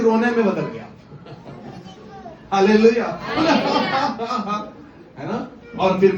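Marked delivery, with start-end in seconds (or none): 3.1-4.7 drawn-out imitated cackle; mock laugh. (नकली ठहाके की नकल)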